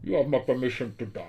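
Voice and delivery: hard-to-understand film villain voice; Bane. Acted. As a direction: speak through a hand over your mouth. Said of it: "ça serait pas mal que Bane, il parle comme ça".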